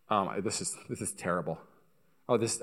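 low, soft imitated grumbling; muted complaining. Parents at a five-star restaurant, low muted complaining. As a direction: grumble it under your breath.

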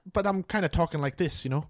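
lightly put-on Irish-style accent; a hint of halfling Irish lilt. Shown as a demonstration. Showing friends a halfling character, light Irish-style accent. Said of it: "one I got for a halfling character".

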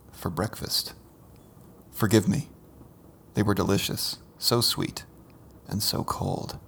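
hushed, tender poem reading; soft poem reading. Acted. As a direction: read the poem softly. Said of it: "which I will read now".

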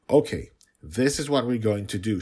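put-on a small girl taking charge of the plan; little girl's voice. A narrator's reading. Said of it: "she told me".

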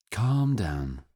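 mild reassurance. A narrator's reading. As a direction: settle a distressed girl mildly. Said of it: "said Doctor Bagley mildly".

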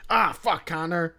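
half-hearted mimic of a fan cursing; mock angry swear. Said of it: "try not to yell, like, swear out loud".

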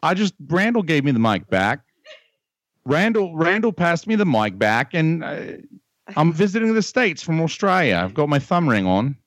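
hammed-up Australian accent; fake Australian accent. Prank caller posing as a visitor from Australia, fake Australian accent. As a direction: put on a shaky-quality amateur Australian accent. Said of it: "you are the most shitty Australian person".

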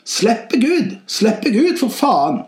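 high-pitched mock yell; shouting inner voice. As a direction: cry out high, dropping on the curse. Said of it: "roper nå".

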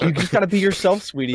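high, bright sitcom dad; goofy clueless sitcom voice. Retold or imitated. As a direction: coach her like a clueless TV dad. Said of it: "the clueless dad trying to coach him".

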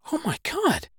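stunned. Retold or imitated. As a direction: gasp it out in disbelief.

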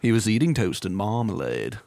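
British accent. Shown as a demonstration. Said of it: "unless you have a British accent on it".

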